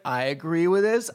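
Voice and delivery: mock audience nodding along with the setup; pleased, put-on agreement; approving audience member. Acting out an agreeing woke audience.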